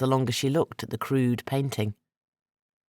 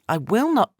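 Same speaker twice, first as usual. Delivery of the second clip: higher, louder, WILL stressed; emphatic refusal; 9 semitones higher, 5 dB louder than usual. Acted. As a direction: repeat it with full force.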